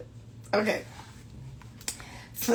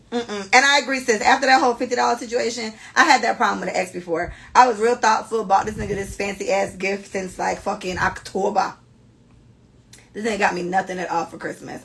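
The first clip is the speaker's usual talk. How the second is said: ordinary talk, nothing marked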